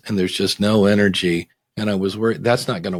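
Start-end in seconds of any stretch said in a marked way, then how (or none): 0.1-1.5 no energy. Shown as a demonstration. Podcaster demonstrating a dull delivery, low and lifeless. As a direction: lower and flat, all the life drained out. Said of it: "if you deliver it like this".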